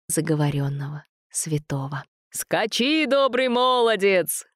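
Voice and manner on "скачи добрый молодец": higher, slow ringing cry; exclaiming. A narrator's reading. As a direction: send him off with a cry. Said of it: "вскрикнул Световид".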